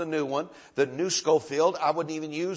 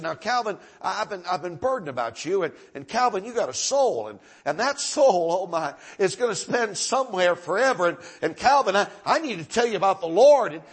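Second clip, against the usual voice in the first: starts earnest, climbs higher and louder to a near shout; building fervent plea; 5 semitones higher, 6 dB louder than usual. Retold or imitated. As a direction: preach it, pleading harder each time you say Calvin. Old preacher urging boy to salvation.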